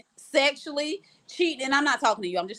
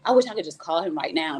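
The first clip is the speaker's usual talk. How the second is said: low, quicker mock-dramatic pining; dramatic longing; 6 semitones lower, faster than usual. Thinking it in bed beside her husband, dramatic longing. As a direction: act out a lovesick inner thought. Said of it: "Y'all know I'm so dramatic".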